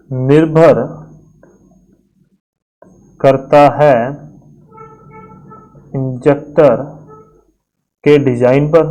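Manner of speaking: each word alone with long pauses; slow it right down for writing; slow dictation. Shown as a demonstration. Teacher dictating the header pressure note, word by word. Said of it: "एक बात आप लिख लो".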